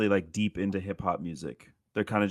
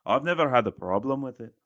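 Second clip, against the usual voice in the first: mock Scottish accent; 2 semitones higher than usual. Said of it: "the voice I'm doing".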